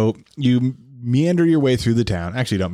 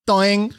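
doing noise; 8 semitones higher than usual. Retold or imitated. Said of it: "Peter goes".

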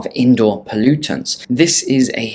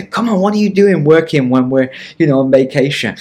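wife's voice; 4 semitones higher, 3 dB louder than usual. Retold or imitated. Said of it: "my wife will say".

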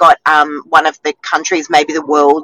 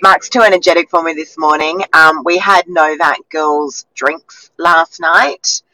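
husky voice. Real, not acted. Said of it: "if I sound husky and I look tired".

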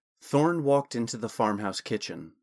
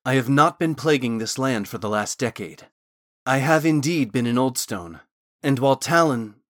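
Thorn explaining, firmer; 5 dB louder than usual. Acted.

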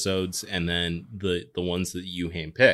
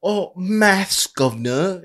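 higher, mocking English "maths, governor"; mock English accent; 10 semitones higher, 3 dB louder, slower than usual. Fan mocking English soccer pundits, mock English accent. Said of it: "when they say maths".

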